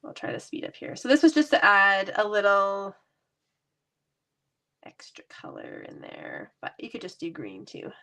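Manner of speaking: blocked nose from a cold; stuffy voice with a cold. Real, not acted. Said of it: "Oh, I sound so stuffy".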